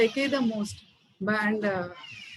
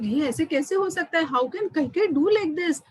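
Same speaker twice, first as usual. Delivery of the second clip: upset disbelief; 5 semitones higher, faster than usual. Acted. Upset mother questions how Kaikeyi could do this, indignant. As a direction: act out an upset mother protesting. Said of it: "she was very upset".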